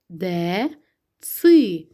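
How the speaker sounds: де and ци pronounced separately, with pauses; syllables singled out. Shown as a demonstration. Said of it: "Вони не наголошені".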